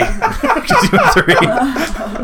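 high, drawn-out words through laughter; helplessly amused, very slow and high; laughing. Acted. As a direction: crack up while dragging out the line. Joking about customer, everyone laughing.

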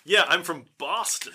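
lightly mocked Boston accent; a hint of Boston, amused. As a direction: imitate a Boston local through a laugh. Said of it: "the Boston accent".

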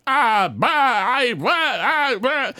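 high flustered stammer. Acted. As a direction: splutter in a panic. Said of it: "kind of stammering".

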